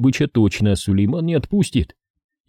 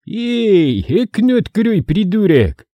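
higher, louder annoyed scolding; indignant yell; 11 semitones higher, 3 dB louder, slower than usual. A narrator's reading. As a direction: snap at him in disgust. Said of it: "по-житейски возмутился Сулейман". (возмущённый окрик)

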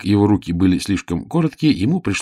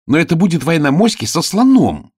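angry; 10 semitones higher, 5 dB louder than usual. Acted. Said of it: "сердито сказала Оля".

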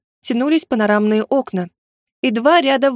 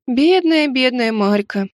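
mock pity; 3 semitones higher, slower than usual. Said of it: "покачала я головой".

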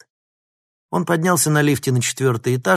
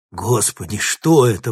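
frightened exclamation; 4 dB louder than usual. Acted. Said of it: "воскликнул один из них".

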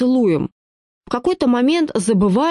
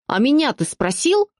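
higher, indignant question to her husband; 6 semitones higher than usual. A narrator's reading. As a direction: throw the question back at him, offended. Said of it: "возмутилась она". (возмущённо, выше обычного)

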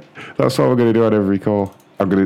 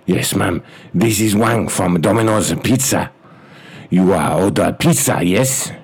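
clipped broken English, hammed-up Chinese accent; mock Chinese accent. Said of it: "as an Asian guy".

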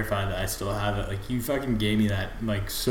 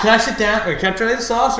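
a higher, louder mock Italian cop; policeman impression; 10 semitones higher, 4 dB louder than usual. Fan quotes the show's policeman asking to sit. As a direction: lightly ham the policeman. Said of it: "you know, policeman".

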